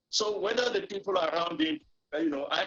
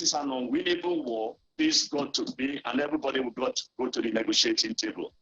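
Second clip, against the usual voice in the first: distorted glitchy line audio; crackly, broken-up remote feed; fuzz distortion; 3 semitones lower than usual. Real, not acted. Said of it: "there's a distortion in the audio".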